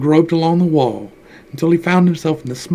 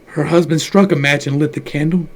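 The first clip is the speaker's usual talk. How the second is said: ordinary delivery, nothing marked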